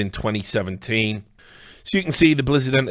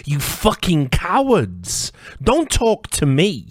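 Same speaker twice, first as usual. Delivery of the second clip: angry contempt; 6 semitones higher, 3 dB louder, slower than usual. Real, not acted. Angry rant at corporations.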